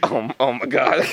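slow, breaking into laughter; laughing through words. Real, not acted. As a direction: say it while cracking up. Laughing while quoting friend.

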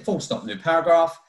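slow dictation with punctuation. Retold or imitated. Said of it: "that's it".

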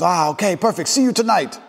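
lightly imitated high voice; old party guest. Old guy thanking a guest for the car's location, lightly imitated high voice. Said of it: "I text the guy".

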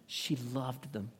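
slow, soft near-whisper; hushed tenderness. Real, not acted. Preacher on Naomi's love for her daughters, hushed tenderness. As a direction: let it sink in, hushed and slow.

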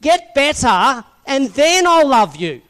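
loud, high mock scolding; omelan menghakimi. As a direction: scold sternly like a parent to a naughty child, drawing out the words. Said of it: "he doesn't go".

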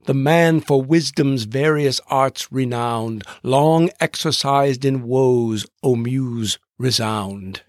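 slow, measured rhyming couplet, stretched out; stately verse reading. Shown as a demonstration. Host reciting Pope's Odyssey opening in slow measured heroic couplets. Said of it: "what's known as Pope's Odyssey".

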